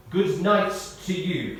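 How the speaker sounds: terse, slow reply. Retold or imitated. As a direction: keep it short and unimpressed, taking your time. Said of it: "came the terse reply".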